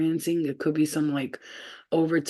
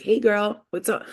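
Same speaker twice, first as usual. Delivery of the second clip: put-on higher-pitched, lilting "hey girl"; imitated girlfriend greeting; 5 semitones higher, 3 dB louder than usual. Showing the boyfriend how black girls really greet, imitated. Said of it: "They're like".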